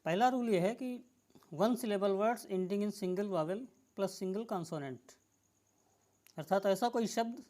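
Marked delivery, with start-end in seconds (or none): 1.5-5.2 each word spaced out slowly for dictation. Shown as a demonstration. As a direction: read the rule out slowly so students can write it. Teacher dictating a spelling rule. (नियम धीरे-धीरे लिखवाते हुए)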